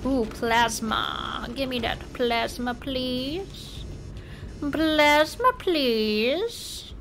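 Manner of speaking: silly voice. Pretend. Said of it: "I don't know what that voice is".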